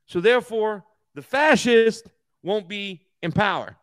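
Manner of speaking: lightly voiced, stilted congressman speech; mocking Jeffries. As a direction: mimic a pompous congressman, lightly, and stretch the last line. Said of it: "That's how this idiot talks".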